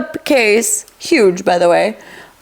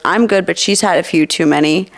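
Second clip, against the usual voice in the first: deadpan; 5 semitones lower, faster than usual. Retold or imitated. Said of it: "she deadpan looks at this officer".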